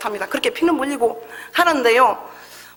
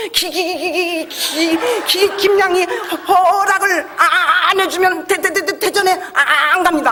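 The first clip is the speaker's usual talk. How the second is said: higher, stuck on each syllable; stammering plea; 6 semitones higher, slower than usual. Retold or imitated. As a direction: stammer out the stubborn vow. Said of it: "고집이 센지요".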